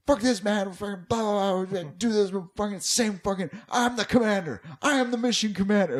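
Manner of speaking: high, loud mock Greek accent in a rant; hammed-up furious little Greek boy; squeaky high ranting kid with Greek accent. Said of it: "he would just be like".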